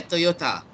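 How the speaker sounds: Toyota with a clear T in "ta"; "Toyota" ending in a crisp "ta"; pronounced with T. Shown as a demonstration. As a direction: say "Toyota" with T, not D. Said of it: "correct pronunciation is with a T".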